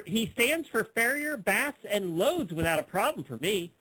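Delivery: sing-song swoops on each item; put-on ad reading. Host reads out a horse ad, put-on reading voice. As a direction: read it out with exaggerated lilt. Reading a classified ad aloud mockingly.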